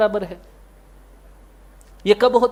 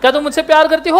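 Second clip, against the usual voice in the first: put-on old movie hero; 5 semitones higher, much faster than usual. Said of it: "पुरानी movie".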